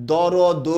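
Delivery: দরদ with an open o sounded after every consonant, final one too; wrong pronunciation. Shown as a demonstration. Teacher showing what we don't say, every vowel sounded. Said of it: "এরকম বলি আমরা?".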